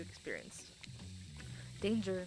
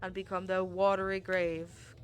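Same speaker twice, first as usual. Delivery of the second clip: ocean. Acted. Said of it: "I am the ocean".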